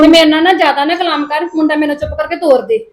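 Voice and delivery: put-on loud, curt demand to hand over the boy; angry order. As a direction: cut the argument short. Custody quarrel over the boy. (ਗੁੱਸੇ ਭਰਿਆ ਹੁਕਮ)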